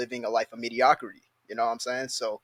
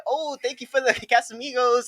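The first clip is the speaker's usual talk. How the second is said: higher, mocking girl's voice with a laugh; hammed-up girl, higher, breaking into a laugh; mock girly thanks; 9 semitones higher than usual. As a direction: sneer it as a girl thanking for a bottle. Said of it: "It's like".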